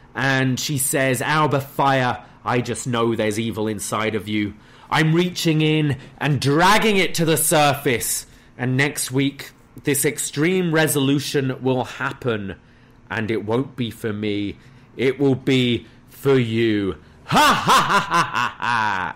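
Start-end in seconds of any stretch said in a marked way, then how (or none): none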